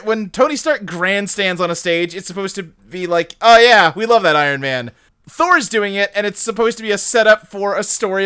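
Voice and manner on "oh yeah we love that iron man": cheering crowd. Retold or imitated. Crowd cheering Iron Man.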